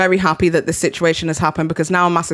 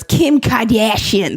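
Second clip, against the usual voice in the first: put-on slow, drawn-out Boston accent, higher pitch; the speaker's Boston accent; 4 semitones higher, slower than usual. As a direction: imitate a Boston accent, stretched out and raised. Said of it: "I love your Boston accent".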